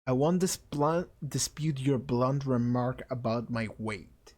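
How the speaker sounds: slow, even, measured character voice; same-voice retake. Acted. Fat classmate accepts the insult, slow and measured. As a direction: deliver it slowly and levelly. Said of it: "He has the same voice".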